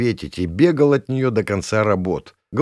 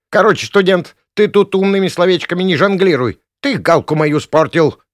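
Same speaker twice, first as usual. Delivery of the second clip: much higher, loud scolding hag; accusing old woman; 10 semitones higher, 8 dB louder than usual. Acted. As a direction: scold the student hard. Gavrilovna accusing the student. (визгливо обвиняя)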